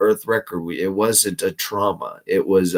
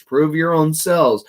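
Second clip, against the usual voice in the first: "Prove your own selves" said higher, with the peak on selves; raised quote; 6 semitones higher than usual. Shown as a demonstration. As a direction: lift the quote up high and land on selves.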